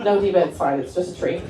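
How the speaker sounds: lightly voiced soothing friend; mock reassuring friend. Friend reassuring paranoid comic in retelling.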